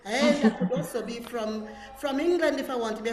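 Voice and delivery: lightly hammed-up accent from England; English accent. Shown as a demonstration. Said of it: "to sound like somebody else".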